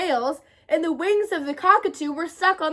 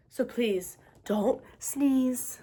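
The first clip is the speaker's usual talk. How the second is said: slow pleading; 3 semitones lower, 6 dB quieter, much slower than usual. A narrator's reading.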